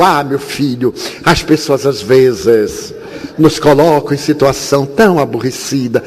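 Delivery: put-on gentle and slowed, as to a small boy; simple, coaxing words for a child; talking to a child. Explaining to the boy Julinho, gently and slowed. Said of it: "Falei em linguagem infantil".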